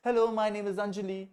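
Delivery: a slow, clear read of an easy line; slow, easy model reading. Shown as a demonstration. Teacher models a simple line for the class, slow and clear. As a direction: spell the line out slowly. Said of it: "ये तो कोई भी बोल सकता है".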